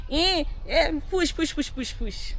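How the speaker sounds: high, hammed-up push chant; mock movie midwife. Mocking movie birth scene, hammed-up chanting. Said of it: "when you watch movies".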